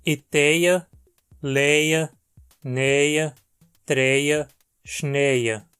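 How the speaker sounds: each ending glided as eia; eia diphthong. Shown as a demonstration. Teacher demonstrates the eia diphthong. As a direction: model the eia glide word by word. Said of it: "assim virando eia".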